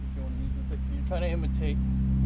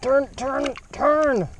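higher, louder urgent calls; urgent pleading; 8 semitones higher, 5 dB louder, much slower than usual. Real, not acted. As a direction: coax the fish urgently. Fish released, struggling.

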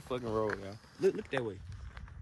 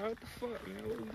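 higher, lightly voiced mock girlfriend; girl voice; 10 semitones higher, 7 dB quieter than usual. Vlogger imitates his date on the dirt road, light mock girl voice. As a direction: play a puzzled girl, a bit higher. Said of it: "She gonna be like".

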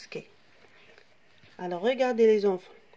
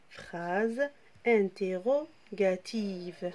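slow repeat; much slower than usual. Shown as a demonstration. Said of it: "Comme ça".

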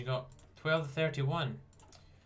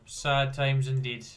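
slow, louder mock lament; mock solemn; 5 dB louder, slower than usual. Real, not acted. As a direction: drag it out in fake sorrow. Mock sympathy.

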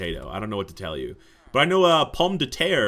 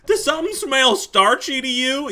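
pompous guide; 14 semitones higher, 7 dB louder than usual. Acted. Guide telling the player what comes next, pompous and high. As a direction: lord it over the player as the smug guide.

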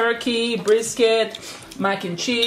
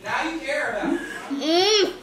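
laughing tease; 4 semitones higher, 5 dB quieter than usual. Real, not acted. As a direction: tease him while laughing. Teasing kid who finally calls.

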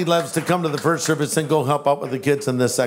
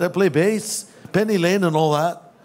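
impression of a famous singer. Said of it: "Paul McCartney was more like this".

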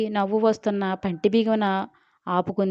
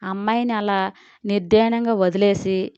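shouting. Acted. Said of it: "అరిచింది జయగారు".

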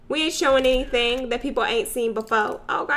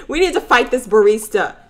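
mock angry; 3 semitones higher, 6 dB louder than usual.

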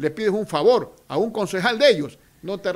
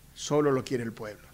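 defiant waiter; 3 semitones higher, 10 dB louder than usual. Retold or imitated. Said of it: "el pobre salonero que estaba con las copas, temblaba".

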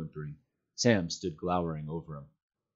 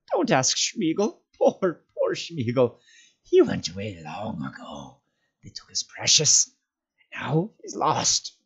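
slow, high wheedling lament; drawn-out creature whine, breaking into whisper; self-pitying creature; 6 semitones higher, 4 dB louder, slower than usual. A narrator's reading. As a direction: mourn yourself as a pitiful creature. Gollum pitying himself.

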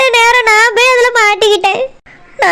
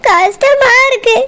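crying; slower than usual. Acted. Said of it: "எதுக்கு இப்படி அழுதுட்டு இருக்கா?".

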